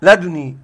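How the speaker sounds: لدني بنون متحركة خفيفة بلا تشديد; انطق لدني وحرّك النون دون تشديدها; قراءة أبي بكر. Shown as a demonstration. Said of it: "بتحريك النون وإسكان". (قراءة لدني بتخفيف النون)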